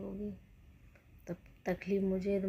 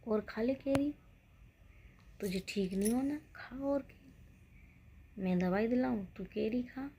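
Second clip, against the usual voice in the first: husband scolding; 3 semitones higher than usual. Retold or imitated. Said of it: "मेरे पति देव ने डांटा मुझे".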